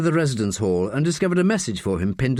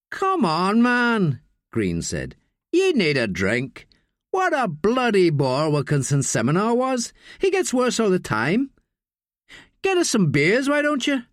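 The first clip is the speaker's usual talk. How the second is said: put-on sneering drunk student; 9 semitones higher than usual. Drunk student pressing Daniel to fetch beers, high jeering voice. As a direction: lean in and goad him like a drunk bully.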